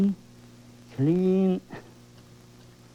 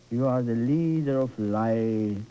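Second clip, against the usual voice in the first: lightly voiced, lower solemn decree; a touch of lordly proclamation; 6 semitones lower than usual. Shown as a demonstration. Painter reminds viewers of their power, lower solemn declaration. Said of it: "Talk like that".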